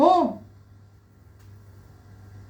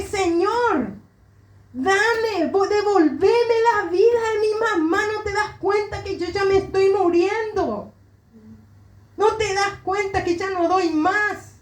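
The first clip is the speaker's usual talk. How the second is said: higher-pitched, imploring cry to God; desperate pleading; 6 semitones higher than usual. Retold or imitated. Grieving daughter on her bedroom floor begs God for her mother, higher-pitched imploring cry. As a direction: beg as if you can't go on, voice raised in pitch.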